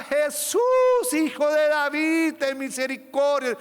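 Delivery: loud, high cry for mercy, stretched out; desperate shout. Acted. Blind Bartimeo calling out to Jesus, desperate loud shout. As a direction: cry out to him across the crowd. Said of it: "Él gritaba".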